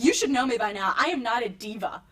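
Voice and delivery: understated indignation in a retold quote; mildly mad. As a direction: insist on it, mock-offended. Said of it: "I got mad".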